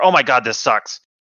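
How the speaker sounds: ordinary talk, nothing marked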